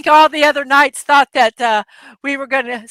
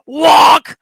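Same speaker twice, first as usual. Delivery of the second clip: put-on Scottish accent; 4 semitones higher, 6 dB louder than usual. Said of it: "he had a Scottish accent".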